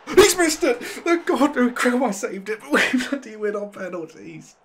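very high, loud victory yell; real euphoric screaming; ecstatic shout. Real, not acted. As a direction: scream it as you win. Winning the shootout.

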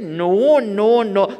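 mock firm refusal. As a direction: refuse firmly. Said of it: "I said".

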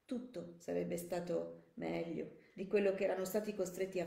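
measured audiobook narration; composed narrator, phrase by phrase; story narration. A narrator's reading. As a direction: read the story aloud with care.

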